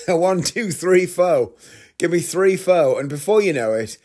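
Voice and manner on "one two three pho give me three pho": high-pitched comic repeat of an order; mock-insistent food order, pitched up. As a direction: count it out higher, pressing the waiter.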